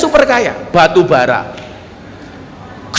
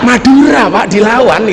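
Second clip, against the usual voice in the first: laughing. Real, not acted. Punchline laugh about Madura.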